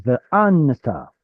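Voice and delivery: ve'anata with the beat on AN, not the final TA; stress on penultimate syllable. Shown as a demonstration. Teacher showing the class where stress moved, penultimate stress on AN in ve'anata. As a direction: lean on AN in ve'anata, letting TA follow. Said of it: "has penultimate stress. It's now".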